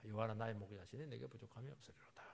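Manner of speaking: soft whispered recitation. Acted. Preacher reciting the shepherd psalm to the congregation, whispered. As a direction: breathe the psalm out hushed.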